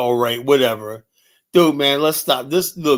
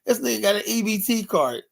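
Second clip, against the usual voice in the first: shocked aside; 8 semitones higher than usual. Retold or imitated. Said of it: "I was like".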